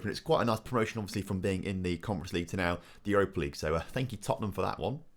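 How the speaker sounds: put-on football manager in Yorkshire accent; broad Yorkshire, post-match interview. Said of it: "you guys keep saying that I can't do a Yorkshire accent".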